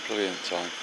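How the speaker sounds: ordinary talk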